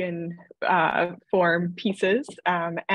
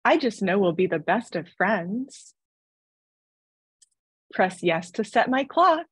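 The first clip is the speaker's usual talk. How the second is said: robotic doll voice. Acted. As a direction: speak like a cheerful talking toy. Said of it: "robotic doll voice".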